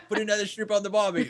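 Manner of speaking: hammed-up Aussie voice pitched well up; a jokey Australian cliché line; mock Aussie barbecue voice, clearly put on; mock Australian accent. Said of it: "You're not Australian".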